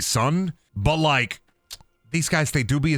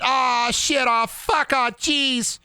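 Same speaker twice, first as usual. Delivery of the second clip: very high, strained cartoon-boy voice; fretful high-pitched stammering exclamations, strung together; Morty; 13 semitones higher, much slower than usual. Shown as a demonstration. Streamer doing a requested cartoon voice for Brennan, Morty impression. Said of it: "can you do a Rick and Morty voice?".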